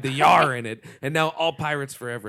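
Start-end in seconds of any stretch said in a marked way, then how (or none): 0.1-0.5 loud pirate "yar"; mock Treasure Island pirate. Shown as a demonstration. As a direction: punch out a stock movie-pirate growl word. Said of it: "That's how pirates happen".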